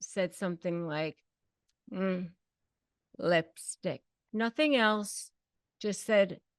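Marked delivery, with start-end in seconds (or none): 1.9-4.0 put-on mutter under the breath. Retelling his passing swipe: imitating someone muttering under breath. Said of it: "under his breath".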